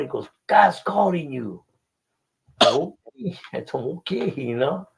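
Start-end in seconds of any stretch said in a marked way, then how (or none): 0.5-1.6 slow announcement. Retold or imitated. Retold solemn message, slow high. 2.6-4.3 meek okay. Retold or imitated. Retold meek reply, very high.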